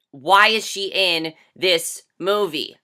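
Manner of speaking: each word drawn out slowly in disbelief; exasperated slow-motion why; slow, incredulous repeat. Shown as a demonstration. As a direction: ask again slowly, stunned.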